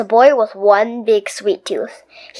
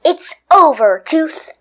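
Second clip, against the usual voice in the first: determined; 5 semitones higher than usual. Acted. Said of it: "suddenly determined Stuart".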